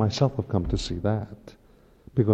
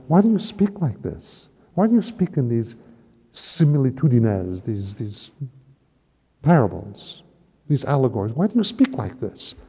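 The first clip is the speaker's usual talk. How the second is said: much higher, astonished questioning; puzzled apostles; 3 semitones higher, 3 dB louder than usual. Acted. Apostles asking Jesus about parables, astonished. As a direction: voice the baffled apostles.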